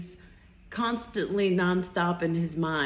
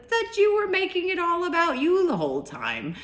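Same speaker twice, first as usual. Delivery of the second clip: much higher, mock-indignant retort; pointed retort; 10 semitones higher than usual. Woman retelling her comeback to a self-centred date, pointed retort. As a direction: pitch it high and hold it there, accusingly.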